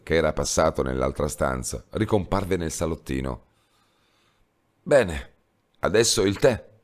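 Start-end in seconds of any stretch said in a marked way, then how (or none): 4.8-6.7 a light, happy announcement of tea; cheerful. Acted. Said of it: "disse allegramente". ("Bene, adesso il tè" detto allegramente)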